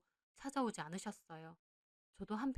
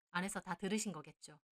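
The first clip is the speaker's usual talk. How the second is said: ordinary delivery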